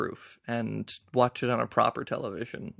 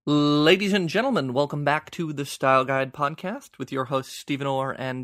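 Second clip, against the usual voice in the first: show announcer; 5 dB louder than usual. Acted.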